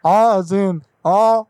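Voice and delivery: folksy neighbourly caller, only slightly put on; Hank Hill voice. Prank caller greeting the car buyer, light Hank Hill voice. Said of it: "Yes, Hank Hill".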